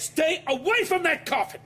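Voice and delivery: slow angry shout at the agents. Acted. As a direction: bark it as a command. Examiner confronts agents.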